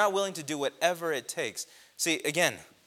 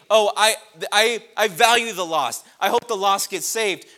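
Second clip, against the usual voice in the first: mock lukewarm believer; 7 semitones higher, 12 dB louder than usual. Mock quote of lukewarm Christian.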